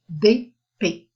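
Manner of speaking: B and P pronounced distinctly, one after the other; contrasting letter names. Shown as a demonstration. Teacher warns not to confuse two letters, contrasting B, P. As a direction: say B, then P, as clearly separate letters. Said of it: "la prononciation de ces deux lettres".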